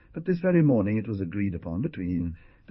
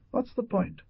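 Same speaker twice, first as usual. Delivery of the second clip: disdain. A narrator's reading. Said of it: "shrugged with disdain and said".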